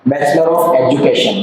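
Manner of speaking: spelled out slowly for writing down; slow dictation. Shown as a demonstration. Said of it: "BEd का full form लिख लीजिए". (धीरे धीरे लिखवाते हुए)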